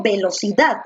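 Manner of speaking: "velocidad" with a clear stress on DAD; teacher models the correct stress. Shown as a demonstration. Teacher models the word for the class. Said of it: "la mayor fuerza de voz recae en dad".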